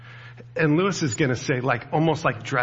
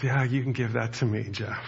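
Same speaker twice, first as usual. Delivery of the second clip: gently. Retold or imitated. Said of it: "God just so gently goes".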